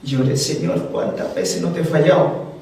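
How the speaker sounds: a preacher moved to tears recounting his prayer; real tearful emotion. Real, not acted. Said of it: "hasta ahora me emociono al contarlo".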